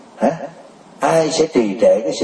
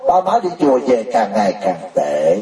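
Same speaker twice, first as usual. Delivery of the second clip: put-on puzzled children; 6 semitones higher than usual. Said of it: "Cho nên nói".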